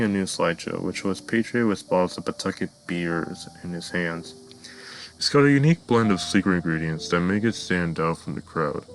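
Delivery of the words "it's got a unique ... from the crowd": exclaiming. Acted. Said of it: "Peter exclaimed".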